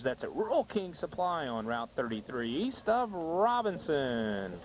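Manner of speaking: lively local commercial read with punched openings; sponsor ad read. Acted. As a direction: sell it to the listeners, stretching the sign-off. Reads sponsor ads.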